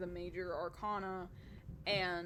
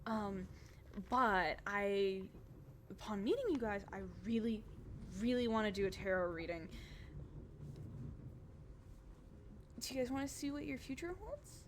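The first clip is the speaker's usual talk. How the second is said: cheerful Adela. Acted. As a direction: chirp it up like an eager hostess. Adela offers reading.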